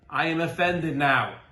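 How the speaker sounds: flat, firm statement of being offended; exclamatory certainty. Shown as a demonstration. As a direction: declare it as an unquestioned fact. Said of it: "Question mark".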